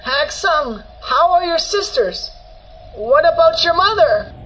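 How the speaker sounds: high, anxious urgent questions; worried grandmother. A narrator's reading. Grandmother in agony asking about the family, worried. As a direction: call out anxiously, pitch way up. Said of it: "and worried about them".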